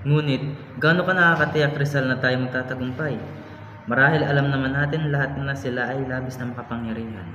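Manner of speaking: loud, insistent objection; doubtful challenge. Acted. Member doubting Rizal's reform will succeed, loud challenge. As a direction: challenge the plan loudly.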